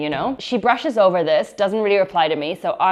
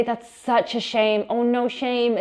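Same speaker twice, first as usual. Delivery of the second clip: sympathetic English shame; 4 semitones higher, slower than usual. Shown as a demonstration. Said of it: "when you say".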